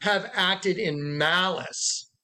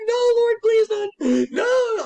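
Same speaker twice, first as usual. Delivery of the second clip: high, loud, slow crying plea; sobbing no Lord please; tearful pleading; 5 dB louder, much slower than usual. Retold or imitated. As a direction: beg through tears not to let it happen. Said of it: "I was in tears".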